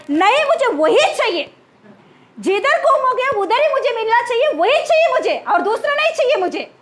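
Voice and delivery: a lightly voiced, insistent little boy; stubborn child. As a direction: whine it like a child who won't budge. (ज़िद करते बच्चे की आवाज़)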